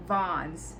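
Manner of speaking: Vons said with an open "o" like "von". Shown as a demonstration. Showing the kids how she said her shoe brand, Vons with open o. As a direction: say "Vons" rhyming with "dons". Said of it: "Maybe I said Vons".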